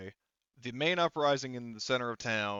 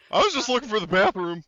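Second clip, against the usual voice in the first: laughing; 10 semitones higher, 11 dB louder, faster than usual. Acted. Joking excuse amid laughter.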